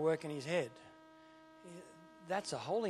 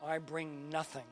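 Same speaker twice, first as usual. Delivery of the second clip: humble prayer; 2 semitones lower, 4 dB quieter than usual. Pretend. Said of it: "with an attitude of humility that says".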